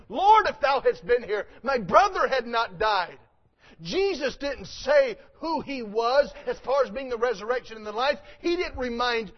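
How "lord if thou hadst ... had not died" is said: louder plea. Retold or imitated. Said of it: "says the exact same statement".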